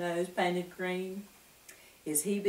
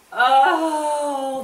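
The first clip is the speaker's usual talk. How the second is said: high, loud admiring gasp; 8 semitones higher, 8 dB louder than usual. A narrator's reading. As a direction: breathe it out in awe. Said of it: "the wemmick said".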